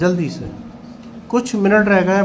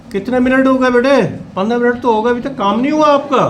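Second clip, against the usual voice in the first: higher and louder, scolding the class; a teacher telling off students who are taking too long; stern scolding; 4 semitones higher, 4 dB louder than usual. Real, not acted.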